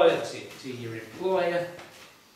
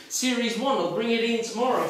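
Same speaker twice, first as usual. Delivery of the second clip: imitating the doctor; 4 semitones higher than usual. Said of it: "he says".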